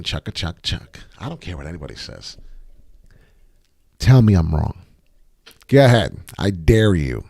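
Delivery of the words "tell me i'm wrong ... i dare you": loud, daring the audience to argue; cocky loud dare; defiant challenge. Real, not acted. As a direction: throw down the gauntlet, loud. Taunting viewers to prove him wrong.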